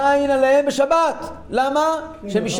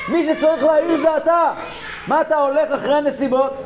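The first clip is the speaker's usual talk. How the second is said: raised, forceful rebuke; rebuking shout; 5 semitones higher than usual. Real, not acted. Preacher rebukes the listener.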